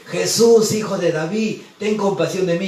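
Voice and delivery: preacher voicing the blind man's pleading shout; retold cry for mercy. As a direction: call out to Jesus for pity, then ease off. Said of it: "y gritaba y gritaba el ciego".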